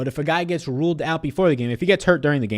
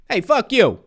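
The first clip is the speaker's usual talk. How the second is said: mock angry; 9 semitones higher, 4 dB louder, slower than usual. Acted quarrel in a made-up fight.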